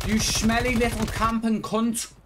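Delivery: high, loud furious yelling; raging gamer. Real, not acted. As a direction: scream abuse at the screen.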